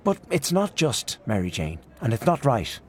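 a touch of heated protest; fierce. Acted. Aunt Kate rebuking her niece Mary Jane, mildly fierce. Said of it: "Aunt Kate turned fiercely on her niece".

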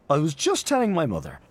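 put-on high, eager gushing young man; Freddy Malins. Freddy gushing to Aunt Julia, high eager voice.

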